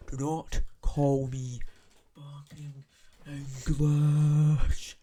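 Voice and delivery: loud slow insistence, then yelled; indignant shout. Real, not acted. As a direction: hammer it home, outraged. Indignant rant.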